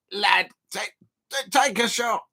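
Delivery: rough imitation of Scouse fans; Scouser accent. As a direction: mimic Liverpool fans, unsure of the accent. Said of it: "The Liverpool fans did it last night".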